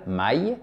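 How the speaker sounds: "Maï" ending in the French cry "aïe". Shown as a demonstration. Teacher showing learners Russian May, ending like "aïe". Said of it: "l'onomatopée aïe en français".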